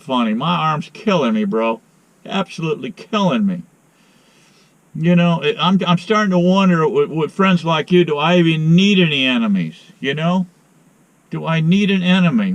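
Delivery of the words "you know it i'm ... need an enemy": exasperated. Real, not acted. Exasperated at friend on phone.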